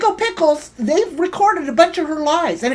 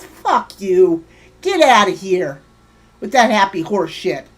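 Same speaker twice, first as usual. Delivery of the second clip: heated up; 5 semitones lower than usual. Real, not acted. Streamer venting at a rival, heated and dismissive. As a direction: snap it at her with real irritation. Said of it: "Sorry I'm getting heated up".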